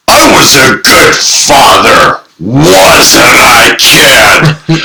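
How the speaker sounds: a hammed-up father fishing for praise, the last word shouted; playing father. Role-play father asks his grown kid for approval, mock proud. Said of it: "he would play father".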